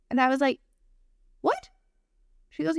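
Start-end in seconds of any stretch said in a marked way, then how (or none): 1.4-1.7 much higher disbelieving what; stunned granddaughter, shocked. Retold or imitated. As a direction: squeak it out in total disbelief. Stunned by adoption news.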